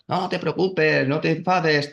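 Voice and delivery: lightly voiced little voice of reassurance; positive inner voice. Spiritual ego reassuring her, in a positive little voice. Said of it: "una vocecita así positiva".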